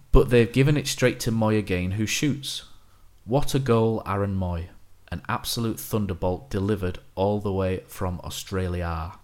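flat, unexcited commentary read; deadpan. Shown as a demonstration. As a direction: say the goal call dead flat. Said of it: "read them with a deadpan voice".

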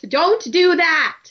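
hammed-up alarm; panicking Thorn. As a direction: plead with a tilting ship. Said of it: "And he's like".

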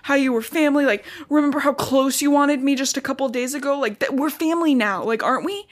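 whiny half-hearted plea for family; pleading Jacob. Retold or imitated. Jacob begging Bella to remember they're family. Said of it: "And Jacob's like".

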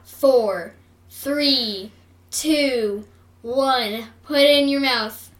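loud, firm countdown shout. Real, not acted. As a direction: call out each number, loud. Counting down the challenge.

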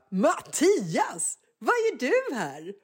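put-on high, drawn-out happy child voice; glad surprise. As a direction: greet a favourite teacher with delight. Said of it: "blir så här glad och bara". (glad överraskning, hög och utdragen)

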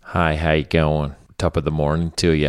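put-on a clumsy American accent that slides into Irish; bad American accent. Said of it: "so it becomes kind of Irish".

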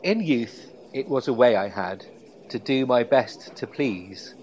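poetry reading voice. Shown as a demonstration. Host reading a Parker poem aloud to his co-host, recital voice. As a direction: lightly read like a recital poem. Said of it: "in my best poetry reading voice".

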